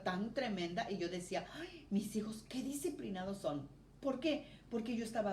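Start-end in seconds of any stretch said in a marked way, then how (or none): 1.5-3.7 susurrado, con ternura fingida; susurro tierno. Retold or imitated. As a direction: como quien bendice en voz baja a sus hijos traviesos. Madre que confiesa bendición ante travesuras. (madre que bendice a sus hijos traviesos, en susurro)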